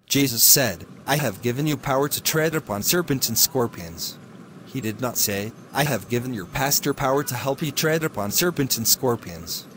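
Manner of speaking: steady, earnest sermon delivery; radio preaching. Acted. Preacher on the radio urging listeners, earnest sermon voice. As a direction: preach good news to the listeners.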